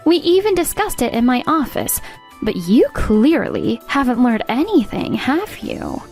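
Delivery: firm scolding with punched key words; stern reprimand. Acted. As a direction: lay out the accusation, leaning on each charge. Boss scolds employee for betrayal.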